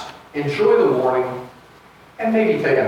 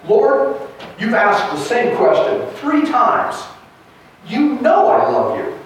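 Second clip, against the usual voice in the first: higher, insistent quoted reply; emphatic; 3 semitones higher than usual. Acted. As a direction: answer emphatically as an exasperated Peter. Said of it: "his answer is even more emphatic".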